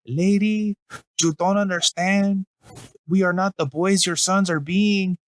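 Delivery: posh-boy English, badly done; awful English accent. A boy on a billboard fooling his mom with a bad English accent. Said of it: "this awful English".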